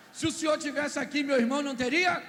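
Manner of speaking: Marta reproaching. Acted. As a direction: complain to him that he came too late. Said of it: "Marta reproaches Jesus". (Marta cobrando Jesus, um pouco mais alto)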